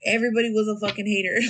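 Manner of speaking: imitating a hater. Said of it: "I used to know somebody that used to talk like that".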